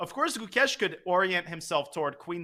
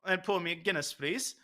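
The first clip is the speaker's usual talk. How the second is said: mock Irish accent, softer at the end; joking Irish accent; 6 dB quieter than usual. Commentator ordering a Guinness as a joke, bad Irish accent. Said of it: "what you would say there with that accent".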